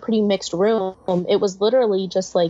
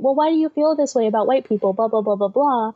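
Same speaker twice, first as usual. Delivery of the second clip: mimicked questioner; 2 semitones higher than usual. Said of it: "having to explain".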